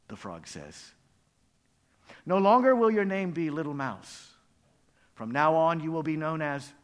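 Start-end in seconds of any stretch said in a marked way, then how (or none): 2.3-6.7 ceremonial proclamation. Acted. Frog renames little mouse, loud proclamation. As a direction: proclaim the new name with ceremony.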